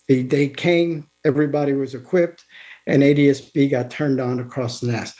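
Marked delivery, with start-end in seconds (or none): 1.2-5.1 slightly winded; speaking a bit short of breath. Real, not acted. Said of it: "Let, let me just catch my breath".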